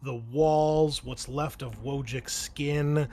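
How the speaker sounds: slow, drawn-out action narration; measured tabletop storytelling; game master scene-setting. Acted. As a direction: set the scene deliberately, lingering on key words.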